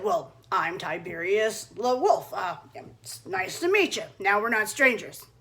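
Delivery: slow, low wolf introduction; smooth wolf. Acted. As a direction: charm her, slow and easy. Wolf introduces himself to Red.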